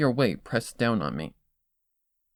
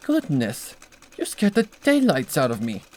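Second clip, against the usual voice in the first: lightly raised refined mare voice, flustered; startled Rarity; 3 semitones higher, 3 dB louder than usual. Acted. Rarity startled by Twilight, lightly voiced fluster. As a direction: gasp it out like a startled seamstress.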